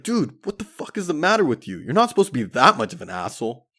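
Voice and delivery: mock-scold the overdoing friend; high-pitched disbelief at his friend; exasperated buddy. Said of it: "My buddy was like".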